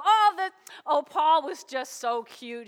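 put-on adoring fuss; mock gushing. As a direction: gush sweetly as if glossing it all over. Mock gushing over a sanitized story.

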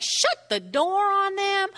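high, drawn-out order; firm command. Acted. Jesus shutting out the mockers, firm high command.

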